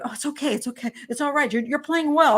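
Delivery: hushed, mock soothing. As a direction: pat her on the back with your voice. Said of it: "The men are always coming up to me".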